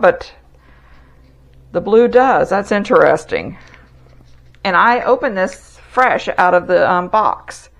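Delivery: speaking through a face mask; muffled behind a dust mask. Real, not acted. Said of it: "I'm expecting to be muffled".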